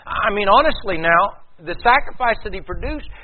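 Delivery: high, loud, insistent preaching; impassioned preacher building up; rising pulpit force. Real, not acted. Preaching rises to full force.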